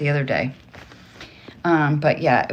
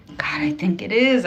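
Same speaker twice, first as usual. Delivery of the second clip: whispering; 4 semitones higher than usual. Real, not acted. Realizing answer, hushed aside.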